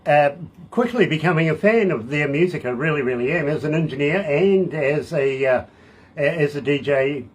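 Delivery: upbeat on-air DJ voice; host it like a radio show. Acted. Radio DJ interview intro.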